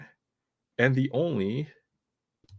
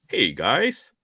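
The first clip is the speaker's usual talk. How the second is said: Sensei Domino impression; 5 dB louder than usual. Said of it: "I can't do the Sensei Domino voice".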